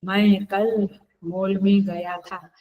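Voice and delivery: spaced out, slow and deliberate; slow example sentence. Shown as a demonstration. Teacher slowly repeats the example sentence for students. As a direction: let each word land before the next. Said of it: "मैं अभी बोली".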